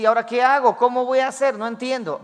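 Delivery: imitating David asking what to do now; lost David. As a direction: sound completely at a loss. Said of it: "así como David dice".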